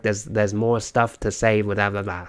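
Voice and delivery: rough stab at a Maryland accent, like Boston but different; tentative imitation of a Maryland accent; attempted Maryland accent. Shown as a demonstration. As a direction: have a go at a Maryland accent, not quite landing it. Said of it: "I think it's a Maryland accent".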